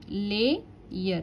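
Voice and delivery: "lay, year" as two separate syllables; split into syllables. Shown as a demonstration. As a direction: pause between "lay" and "year". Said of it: "मैंने divide किया इसको".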